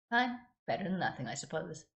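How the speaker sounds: sighing, resigned and fading. Acted. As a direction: give in with a weary sigh. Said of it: "said with a resigned sigh".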